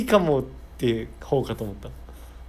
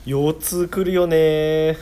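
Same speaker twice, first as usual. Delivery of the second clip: office lady chat; 3 semitones higher, 4 dB louder, much slower than usual. Pretend. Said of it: "なんかオーエルランチ会話みたいな。".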